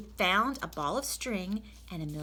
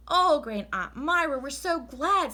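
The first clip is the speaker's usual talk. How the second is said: louder, slow gushing; relieved couple fawning; relieved hosts; 8 semitones higher, 7 dB louder, slower than usual. Acted. The Rogers relieved.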